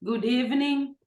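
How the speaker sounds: hoarse, raspy voice after a bad cough. Real, not acted. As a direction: speak through a hoarse throat. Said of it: "if you may excuse my voice".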